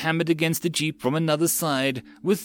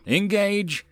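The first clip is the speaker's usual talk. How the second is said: high-pitched, drawn-out command; yelled order; 9 semitones higher than usual. A narrator's reading. Peter ordering his gunners to fire, yelled order. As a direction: call out the attack order. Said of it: "yelled before switching the channel".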